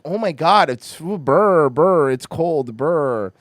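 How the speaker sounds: hammed-up shivering burr, slow and drawn; mock a freezing person going burr. Mocking himself shivering over cold mornings. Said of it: "When I wake up and I'm like".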